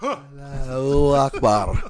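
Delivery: mock battle cry. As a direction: stretch it out as a hammed-up war cry.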